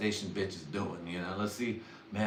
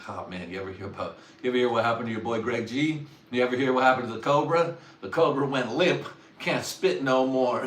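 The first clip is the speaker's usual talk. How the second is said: fast, louder hyped-up gossip; mocking gossip; 3 semitones higher, 4 dB louder than usual. Buddy gossiping about the Cobra, fast and louder. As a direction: spread the rumor with glee.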